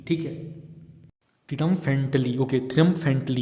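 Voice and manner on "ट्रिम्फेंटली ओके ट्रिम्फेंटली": ट्रिम्फेंटली sounded out as trim-FENT-lee; pronunciation demo. Shown as a demonstration. Teacher shows students how to pronounce the word, ट्रिम्फेंटली as trim-fent-lee. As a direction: say ट्रिम्फेंटली in clear chunks, trimf-ent-lee. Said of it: "इसको ऐसे pronunciation करेंगे".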